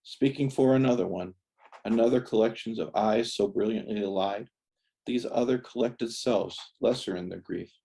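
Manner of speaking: measured verse, lifted on the opening address; poem reading. Acted. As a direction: recite it line by line with deliberate pauses. Reads poem addressed to Alfie.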